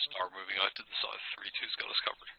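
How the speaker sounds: hushed radio order; whispering. Real, not acted. Tactical radio in combat.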